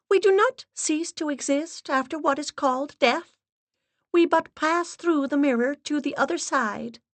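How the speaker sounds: high, grave, steady voice; solemn medium's assistant. Acted. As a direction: speak like a severe séance guide. Assistant's held voice.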